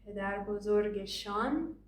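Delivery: shan said with an open ah; formal Persian shan; written form shan. Shown as a demonstration. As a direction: end on a clear shan. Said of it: "We're gonna take the shin".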